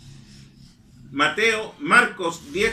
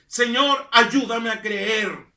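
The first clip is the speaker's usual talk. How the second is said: slow pleading prayer; slower than usual. Retold or imitated. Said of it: "dile como aquel hombre".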